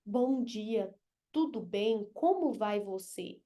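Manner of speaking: mock stiff, quiet politeness; a textbook greeting, lightly mocked; stiff formal greeting. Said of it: "vocês não estão ali". (cumprimento certinho de livro, leve deboche)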